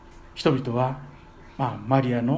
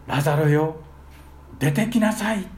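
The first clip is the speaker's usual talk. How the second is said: loud cry. Shown as a demonstration. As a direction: command the dead man to come out. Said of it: "大声で".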